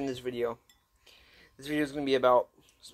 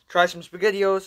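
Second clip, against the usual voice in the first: excited; 6 semitones higher, 5 dB louder, slower than usual. Real, not acted. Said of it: "I'm really excited for this video".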